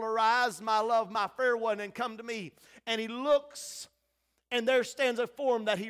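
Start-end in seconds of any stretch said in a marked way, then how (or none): 0.0-2.5 a mildly raised, welcoming call. Acted. Father calls from the portal of heaven, raised call. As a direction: call out, easing off at the end. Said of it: "He has just called".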